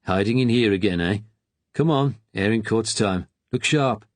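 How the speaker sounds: brisk Brummy attendant, lightly voiced; a hint of Birmingham, bossy; light Brummy soldier chivvying; Brummy accent. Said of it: "he said in his Brummy accent".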